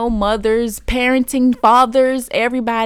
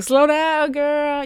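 high, light self-scolding; a hint of a sassy inner voice; self-talk; 7 semitones higher, much slower than usual. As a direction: tell yourself to calm down, lightly voiced. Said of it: "because I be like".

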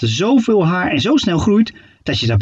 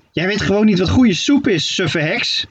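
scornful witch; 5 semitones higher than usual. Acted. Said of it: "zei Steketee".

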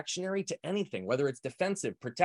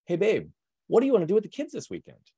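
innocent question; 5 semitones higher, 4 dB louder than usual. Retold or imitated. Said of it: "my wife would say something like this".

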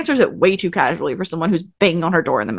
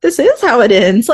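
"This is how it ends" declared louder, mock-dramatic; 4 semitones higher, 6 dB louder than usual. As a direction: ham it up like a movie finale line. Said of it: "And I was like".

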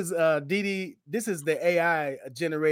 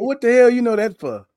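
incredulous; 6 semitones higher, 9 dB louder than usual. Real, not acted. Teasing about song knowledge.

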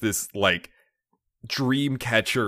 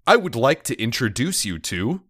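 automated voice message; 3 semitones higher than usual. Retold or imitated. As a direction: read it like a phone menu. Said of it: "sounds like an automated voice message system".

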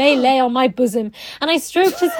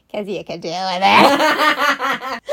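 slow, snide aside; much slower than usual. Pretend.

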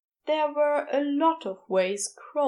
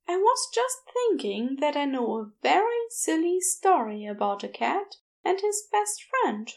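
lightly voiced gentle angel, higher and soothing; 5 semitones higher than usual. Aziraphale soothing a frightened girl.

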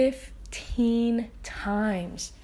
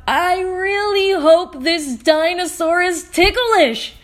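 hopeful thought; 5 semitones higher, 9 dB louder than usual. Acted.

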